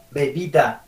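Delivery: "bebida" con los dos labios; B bilabial. Shown as a demonstration. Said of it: "la diferencia entre las dos Bs". ("bebida" con be labial)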